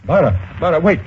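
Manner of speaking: urgent call after a departing woman. Acted. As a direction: stop her before she goes. Calling after her as she leaves.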